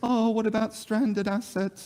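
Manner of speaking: put-on very high, whiny, pretend complaining tone. Imitating what critics often say about stranded assets: mock whiny voice. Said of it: "giving us a pretend whiny voice about stranded assets".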